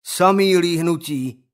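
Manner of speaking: thick dim-witted mumble; mumbled. Acted. Roy flips the notebook, mumbling dully.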